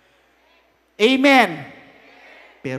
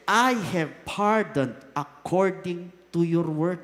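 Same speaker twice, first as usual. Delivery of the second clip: God pardoning; 4 semitones lower, slower than usual. Acted. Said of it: "Then the Lord said".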